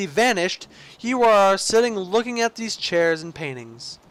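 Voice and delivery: theatrical, savouring narrator voice; game story narration. Acted. Player narrating Stanley admiring the lounge, theatrical storyteller.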